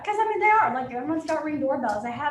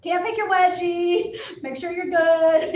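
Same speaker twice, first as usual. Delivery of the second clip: playful warning; 5 semitones higher, 7 dB louder, slower than usual. Retold or imitated. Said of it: "when I always tell them".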